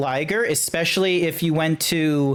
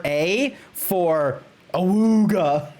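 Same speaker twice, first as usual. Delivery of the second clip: laughing; much slower than usual. Real, not acted. Joke rating between laughs.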